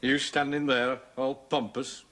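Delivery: ordinary talk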